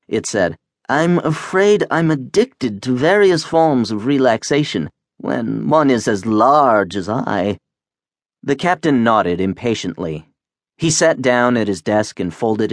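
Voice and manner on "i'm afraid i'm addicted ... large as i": lightly voiced courteous wub, slowing at the end; apologetic creature. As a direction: excuse yourself politely as a large, leisurely creature.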